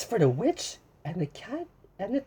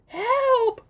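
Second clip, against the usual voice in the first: high mock cry for help; 1 witch crying help; 5 dB louder than usual. Witch fleeing the dragon, mock cry. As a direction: call for help, hammed-up. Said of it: "cried the witch".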